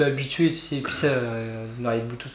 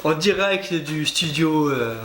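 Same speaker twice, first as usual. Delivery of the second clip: TV host voice; 2 semitones higher than usual. Pretend. Mock live studio intro.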